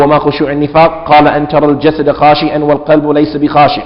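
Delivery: rapid, even-toned Arabic reading; brisk monotone text recital; reading Arabic text aloud. Real, not acted. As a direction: read straight through the text at speed, on a level pitch.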